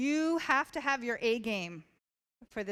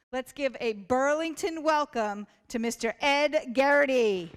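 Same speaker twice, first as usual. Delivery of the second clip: loud, raised build-up to the name; big welcome announcement; 3 semitones higher, 7 dB louder than usual. Real, not acted. Host introducing the guest speaker to the school, rousing announcement.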